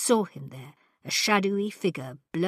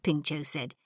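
ordinary delivery

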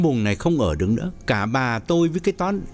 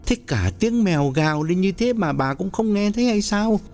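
irritated; 8 semitones higher than usual. Acted. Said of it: "Lý Hưng bực bội hỏi thêm".

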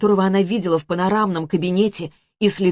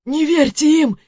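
furious hiss; 9 semitones higher, 3 dB louder than usual. Acted. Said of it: "яростно зашипел Антон".

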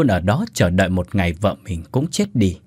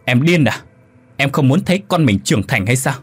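a raised, higher rebuke; scolding shout; 4 semitones higher than usual. Acted. Husband yelling at his wife for offering her soul, angry. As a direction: yell at her in disbelief. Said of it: "Ông quát lên".

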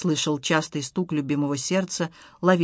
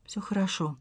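faint, much softer reply; barely audible; 9 dB quieter than usual. Acted. Wife answers her husband, barely audible. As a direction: say it almost without voice. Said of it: "ответила она едва слышно".

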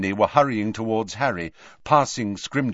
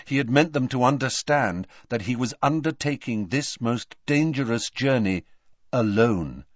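ordinary delivery, nothing marked

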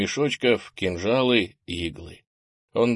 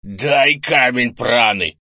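loud, slow, pitched-up order; strained demand; 3 semitones higher, 8 dB louder, slower than usual. A narrator's reading. Wounded grandfather demands a stone from grandson, straining loudly. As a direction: force the demand through pain.

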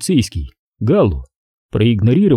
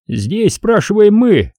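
stern; 10 semitones higher, slower than usual. Acted. Cop asserting authority.

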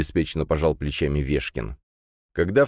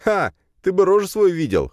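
laughing; 14 semitones higher, 5 dB louder than usual. Acted. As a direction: burst of laughter, much higher and louder. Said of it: "хохотнул парень".

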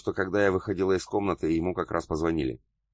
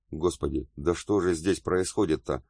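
ordinary delivery

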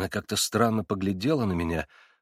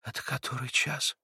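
much softer, hushed and tense; anxious whisper; 3 semitones higher, 8 dB quieter than usual. A narrator's reading. Girl startled by the striking clock, anxious whisper. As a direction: ask under her breath in dread. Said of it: "прошептала".

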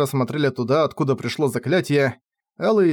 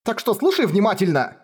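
higher, urgent demand; insistent girl; 7 semitones higher than usual. Acted. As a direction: make him listen. Кефар продолжает кричать. (Кефар настойчиво требует внимания)

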